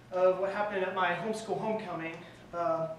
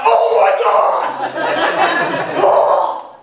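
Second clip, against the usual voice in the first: mock panic; 9 semitones higher, 15 dB louder, much slower than usual. Stuck on rock, panicking.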